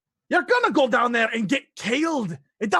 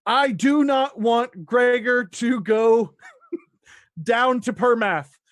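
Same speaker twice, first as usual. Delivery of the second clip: firm slow refusal; 5 dB louder, slower than usual. Acted. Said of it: "she immediately is like".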